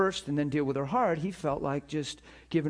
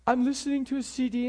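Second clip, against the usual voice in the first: high, tearful mock sobbing thanks; overwhelmed caller choking out thank you in tears; imitating bawling caller; 9 semitones higher than usual. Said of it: "bawling on my phone".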